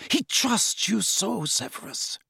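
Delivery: pleading Narcissa. A narrator's reading.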